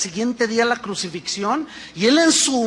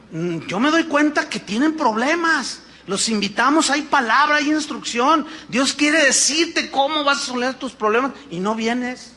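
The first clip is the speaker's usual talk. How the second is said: quoting the teacher; 3 semitones higher than usual. Retold or imitated. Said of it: "Y él dijo así".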